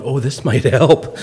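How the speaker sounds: slow with a chuckle; laughing, slow. Retold or imitated. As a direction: let a laugh through, slowly. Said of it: "And I'm going".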